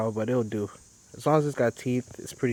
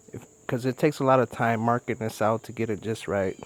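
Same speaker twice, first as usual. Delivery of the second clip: slightly winded, breathing between words. Real, not acted. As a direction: talk while short of breath. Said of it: "I'm a little out of breath here".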